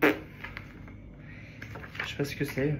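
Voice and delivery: slow breathy puzzled whisper; barely voiced, drawn-out; whispered bafflement. Real, not acted. Baffled by the notebooks. (chuchoté, perplexe)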